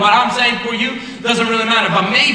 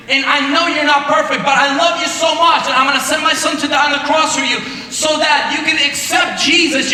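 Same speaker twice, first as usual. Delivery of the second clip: full-force preaching; 3 semitones higher than usual. Acted. Preacher to the youth group, impassioned rising shout. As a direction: build it to a shout, pleading.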